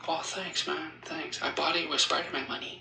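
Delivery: lightly voiced, soft-spoken film star; Tom Holland. Actor thanks the guard for the compliment, lightly put-on soft voice. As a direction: take the compliment casually, voice softened and slightly lifted. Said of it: "I met Tom Holland".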